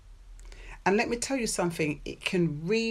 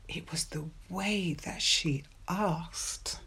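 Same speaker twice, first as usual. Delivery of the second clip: softer, slow aside to his friend; quiet overheard remark; 7 dB quieter, slower than usual. Retold or imitated. One guy at the fridge to the other, quietly. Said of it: "I heard one of the guys say".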